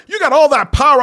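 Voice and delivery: high, loud scolding; exasperated outburst. Acted. Fan telling off broke Spider-Man, loud and exasperated. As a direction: yell at the hero in disbelief. Acted exasperated advice to the hero.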